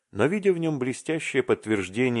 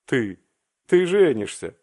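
loud, high astonished shout; shouting at the top of his lungs; 4 semitones higher, 7 dB louder than usual. A narrator's reading. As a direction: yell it out in disbelief. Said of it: "закричал благим матом Аркаша".

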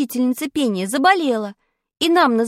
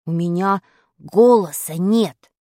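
much lower, slow gloomy voice; glum boy; 7 semitones lower, slower than usual. Acted. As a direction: mope it out. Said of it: "понуро ответил Зябликов".

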